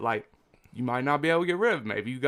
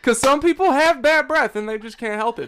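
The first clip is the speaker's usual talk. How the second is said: laughing; 9 semitones higher, 5 dB louder than usual. Real, not acted. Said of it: "laughing rant".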